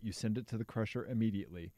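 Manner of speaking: bad Russian accent on crusher immediately. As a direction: try a clumsy Russian accent. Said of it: "is that a Russian accent".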